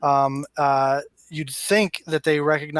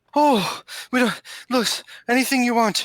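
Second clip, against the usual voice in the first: high, frightened, fearful pleading; 9 semitones higher than usual. Voicing a captive who begs the player's character: pleading in fear. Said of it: "as she looks at you and says".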